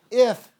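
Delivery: "If" punched high and loud; emphatic stress. Shown as a demonstration. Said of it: "I'm gonna emphasize a couple words here".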